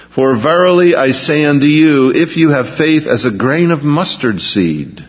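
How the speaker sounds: measured, solemn reading of the Gospel; scripture reading. Acted. Preacher reading the healing story to the congregation, solemn. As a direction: read the verses like a pulpit lesson.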